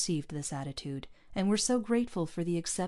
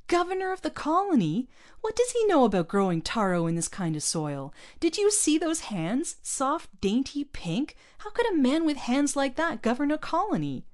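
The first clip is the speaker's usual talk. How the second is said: much higher, louder bitter disbelief; choked outrage; 10 semitones higher, 5 dB louder than usual. A narrator's reading. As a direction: voice strangled with indignation. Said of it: "he choked".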